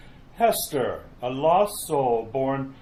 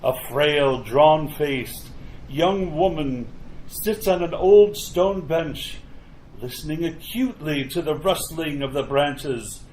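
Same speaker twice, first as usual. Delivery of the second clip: measured, atmospheric scene-setting narration; story narration. A narrator's reading. Narrator opens a graveyard tale, ominous story narration. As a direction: set an eerie graveyard scene, unhurried.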